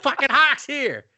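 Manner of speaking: high, slow gasp of a starstruck fan; awestruck fan. Retold or imitated. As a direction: say it like meeting a legend.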